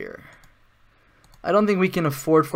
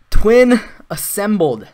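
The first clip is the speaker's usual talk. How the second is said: loud, slow, raised proclamation; triumphant announcement; 5 semitones higher, 8 dB louder, slower than usual. Real, not acted. Gamer announcing the assembled combo, triumphant. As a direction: proclaim it slowly, high and loud.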